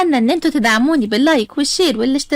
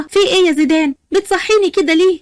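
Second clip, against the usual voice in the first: higher-pitched startled questioning; 4 semitones higher than usual. Acted. Sara woken suddenly by her husband, startled. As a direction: woken with a mild jolt of alarm. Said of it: "سارة بخضة".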